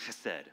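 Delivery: chesed with a throaty, scraped first sound; throaty Hebrew ch. Real, not acted. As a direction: say chesed with a guttural ch at the start. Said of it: "like, throaty sound".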